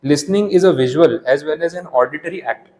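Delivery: slow, deliberate reading aloud from the book; textbook reading. Acted. Teacher reading the definition to students, slow and deliberate. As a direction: read each word out slowly for the class.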